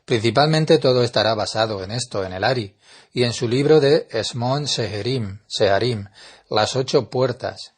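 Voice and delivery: normal talking voice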